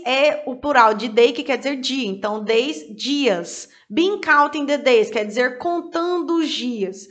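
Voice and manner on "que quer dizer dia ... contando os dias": ordinary delivery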